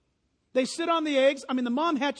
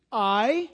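I said alone, louder; stress on I; 5 dB louder than usual. Shown as a demonstration. Pastor to congregation, stressing I. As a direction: hit the word I hard. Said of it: "circle that".

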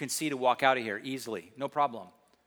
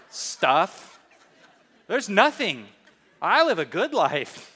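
mock-innocent denial to a parent; hammed-up protest of innocence; feigned innocence; 3 semitones higher, 5 dB louder, slower than usual. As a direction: act as if you have nothing to hide. Retold feigned innocence to his mom.

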